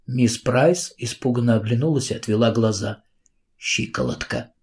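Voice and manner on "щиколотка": whispered, low and soft; hushed whispered mutter. A narrator's reading. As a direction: breathe the word out in pain. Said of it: "пробормотала она".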